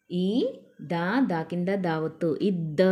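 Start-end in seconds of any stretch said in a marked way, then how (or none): 2.4-2.8 "ఇద్ద" with a held double d; pressed doubled consonant. Shown as a demonstration. Teacher showing learners the doubled d, pressed "ఇద్ద". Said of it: "ఒత్తి పెట్టి చదవాలి".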